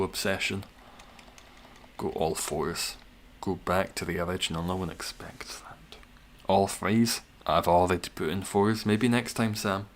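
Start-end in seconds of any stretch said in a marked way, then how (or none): 4.6-6.0 unvoiced conspiratorial whisper. Real, not acted. Streamer whispers a secret plan to chat, conspiratorial.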